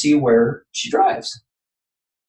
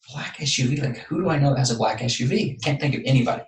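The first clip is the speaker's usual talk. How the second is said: softer, as if puzzling privately; thinking aloud; 6 dB quieter, faster than usual. Retold or imitated. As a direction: mull it over quietly to yourself.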